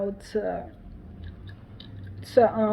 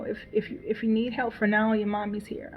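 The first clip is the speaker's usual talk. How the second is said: tender reassurance; 6 dB quieter than usual. Retold or imitated. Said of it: "I make sure to keep telling him".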